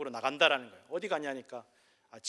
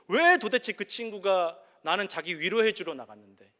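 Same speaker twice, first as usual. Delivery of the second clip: raised, louder acted bewilderment; baffled protest; 3 semitones higher, 6 dB louder than usual. Father who went out to console, acting genuinely baffled. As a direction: protest innocence as the clueless father. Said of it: "자기는 진짜 모르겠다는 거예요".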